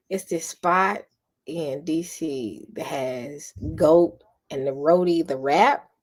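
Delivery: slow whispered longing; dreamy whisper. Real, not acted. Dreaming of D C roti.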